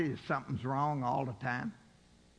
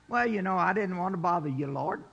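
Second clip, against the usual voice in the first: sheepish believer excusing himself; mock timid excuse; faster than usual.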